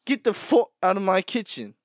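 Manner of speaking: his own take of the line. Shown as a demonstration. Yelling at someone in his kitchen. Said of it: "why do they say "fut".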